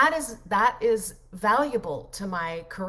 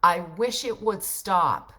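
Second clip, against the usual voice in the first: slow, louder tired plea; weary wish; 6 dB louder, slower than usual. Retold or imitated. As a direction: drag it out like you're fed up with work. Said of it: "That's what I said to myself".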